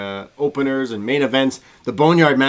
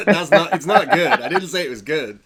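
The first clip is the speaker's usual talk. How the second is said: laughing; 4 semitones higher, 5 dB louder than usual. Real, not acted. Laughing at his own bad impression.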